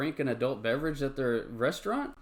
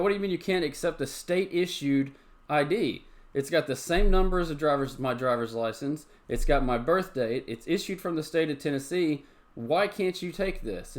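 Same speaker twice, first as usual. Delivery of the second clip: higher-pitched, incredulous retold complaint; indignant protest; 4 semitones higher than usual. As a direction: replay the outrage at the waitress. Retelling angry exchange with waitress.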